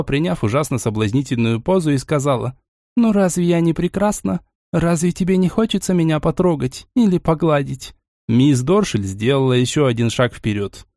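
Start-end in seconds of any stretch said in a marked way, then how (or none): 3.0-7.9 breathy vintage purr; соблазнительное мурлыканье; томный соблазн. Acted. Соблазняет, встав в позу. (томно, чуть выше, с придыханием)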